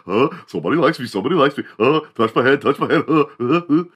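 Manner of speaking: high, excited panting dog; eager dog voice. Acted. Dog begging its owner for pets, high and eager. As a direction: play the dog, overjoyed at attention. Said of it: "dogs are just like".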